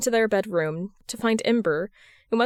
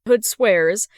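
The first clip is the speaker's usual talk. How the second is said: ordinary delivery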